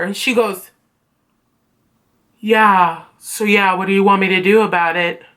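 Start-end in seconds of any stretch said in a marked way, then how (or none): 2.4-5.2 low, offhand imitation of indifference; dismissive. Teacher brushing off student's request, low and dismissive. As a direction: shrug it off like an uninterested teacher.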